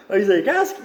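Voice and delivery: giggly aside to viewers; laughing. Real, not acted. Laughs then comments.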